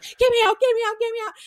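high, loud mock panic; retold screaming plea; imitating panicked brother. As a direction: cry out like a scared kid trapped in dirt. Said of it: "he's like".

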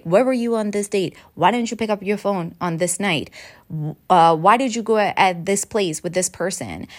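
mildly accusatory, interrogating tone; a hint of an accusing partner firing questions; accusatory questioning. Shown as a demonstration. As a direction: grill them a little, as if they lied. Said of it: "my tone of voice, it gets a bit more accusatory".

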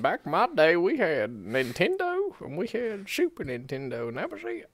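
put-on slow, high cranky old man; angry old man. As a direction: grumble like a grumpy grandpa. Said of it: "I'm gonna be an angry old man".

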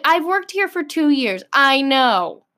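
worked-up, indignant retort; fired up. Retold or imitated. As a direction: snap back at someone telling you the obvious. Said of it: "I'm getting a little fired up".

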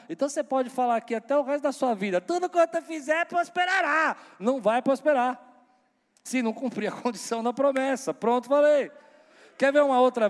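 high, loud emphatic preaching. Real, not acted. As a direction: drive the point home loudly. Preacher rises to forceful point.

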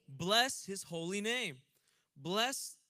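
slow, loud, emphatic scripture reading; preaching scripture. Acted. Preacher reading Psalm to congregation, emphatic. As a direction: proclaim each phrase to the room.

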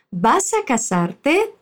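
"¿Vas a casarte?" slow, with a question rise; slow model phrase. Shown as a demonstration. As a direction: spell out "¿Vas a casarte?" slowly for a learner.

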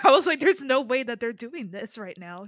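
loud, stunned no way; can't believe what she's seeing; shocked disbelief. Retold or imitated. Friend reliving the scene, shouting in disbelief.

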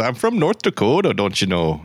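lilting North Dakota "don't you know"; sing-song Upper Midwest lilt; mock North Dakotan twang; North Dakota accent. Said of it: "you have to say it with that".

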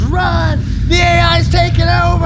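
high, yelled panic cry; panicked shout. Retold or imitated. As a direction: scream it like fleeing crowds. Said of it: "everyone goes".

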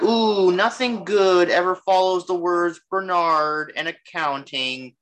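slow, dry put-on voice for a wary Peggy; a lightly voiced Peggy brushing off a suitor; Peggy Carter voice. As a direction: drawl the line like an unimpressed Peggy. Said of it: "and Peggy was like".

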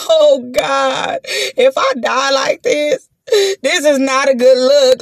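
slow, whimpering cry of fear; hammed-up tearful panic; mock crying plea. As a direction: wail it like you might die here. Retold terrified plea.

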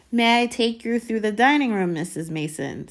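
high, loud put-on courtesy; rehearsed gallantry. A narrator's reading. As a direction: play the over-polite boy escort. Boy rehearses courteous line.

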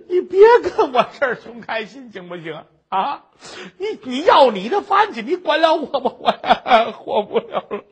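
exasperated, crying snap; angry and tearful. Acted. Vexed widow tells the pestering beggar to leave, crying. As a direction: sob it out in annoyance. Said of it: "把这大嫂子气的".

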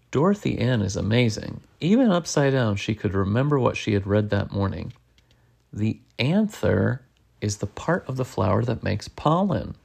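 lively read-aloud with swooping pitch; animated picture-book narration; story reading to children. A narrator's reading. Reading a bug adventure aloud to a child, animated storytelling.

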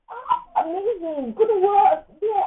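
high mock praise from colleagues; light imitation of coworkers cheering; colleagues praising.

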